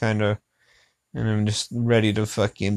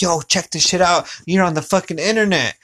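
retold excitement; 5 semitones higher than usual. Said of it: "I went up to her and I was like".

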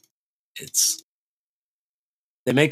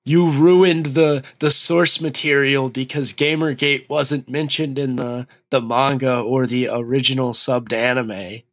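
mock complaint; 3 semitones higher than usual. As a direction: imitate an outraged fan. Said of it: "people are like".

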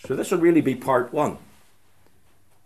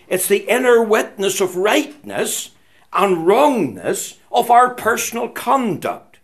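emphatic preaching; 6 semitones higher, 4 dB louder than usual. Acted.

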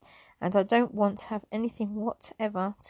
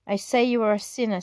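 fast, loud preacher's accusation; booming accusation; 4 dB louder, faster than usual. Acted. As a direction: call it out across the hall. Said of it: "in a tone to be heard all over the hall".

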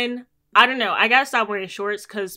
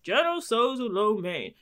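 mimicked stranger; 3 dB quieter than usual. Man listening in on her food order, mimicked stranger. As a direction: imitate a stranger butting in with relish.

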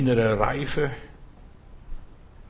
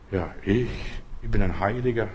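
lower, softer smug saint; lowered, quietly smug mock saint; mock holier-than-thou; 5 semitones lower, 5 dB quieter than usual. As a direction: parody a self-satisfied saint. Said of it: "Blödsinn".

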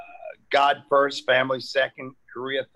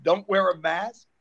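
mock governor; 2 semitones higher, 3 dB louder than usual. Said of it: "I'm going like this".

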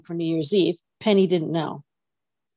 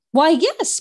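breathless; 10 semitones higher, 5 dB louder than usual. A narrator's reading. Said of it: "Penny said rather breathlessly".

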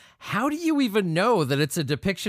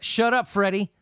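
pushy buddy again; 3 semitones higher than usual. Retold or imitated. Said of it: "And then Frederick's like".

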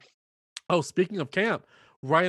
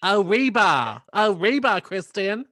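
hammed-up hurrying mom; 5 semitones higher, 6 dB louder, slower than usual. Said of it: "mom hurrying her daughter".

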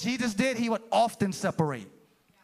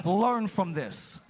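slow, deliberate teaching; 2 semitones lower, much slower than usual. Acted. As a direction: lay it down slowly like a patient teacher. Jesus teaching disciples, first take.

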